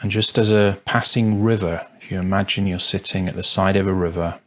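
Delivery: spacious, calm guidance, long silences between phrases; guided meditation. Acted. Meditation teacher guiding listeners to observe thoughts, calm and spacious. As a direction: let each instruction settle before the next.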